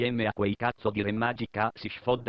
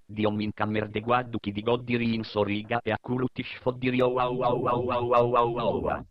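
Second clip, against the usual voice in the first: explosive italian cursing. Acted. Countdown then a cursing burst.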